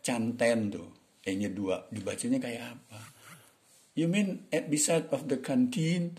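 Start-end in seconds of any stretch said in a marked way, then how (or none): 4.0-6.2 slow, higher-pitched model question; English pronunciation demo. Shown as a demonstration. Teacher shows learners how canteen is read, slow demo question. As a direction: say "canteen" slowly inside a raised-pitch question. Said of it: "Tuh, begitu maksudnya".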